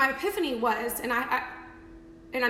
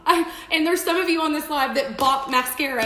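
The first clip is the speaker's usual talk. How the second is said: laughing while talking, louder and higher; 4 semitones higher, 7 dB louder than usual. Real, not acted. To her live viewers, laughing at her old selfies. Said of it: "I literally freaking fell out laughing".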